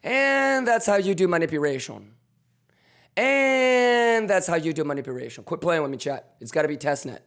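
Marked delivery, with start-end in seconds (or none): 0.0-5.4 hyped catchphrase. Real, not acted. Repeating catchphrase to chat, hyped.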